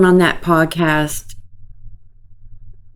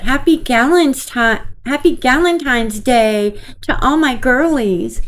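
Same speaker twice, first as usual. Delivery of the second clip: mocking girly voice; 6 semitones higher than usual. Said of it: "look what she said".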